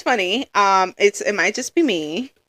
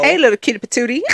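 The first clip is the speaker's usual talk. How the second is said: quick, laughing catcall voice; laughing mock catcaller; 2 semitones higher, faster than usual. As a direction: ham up a cheesy pickup line. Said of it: "imitating men catcalling".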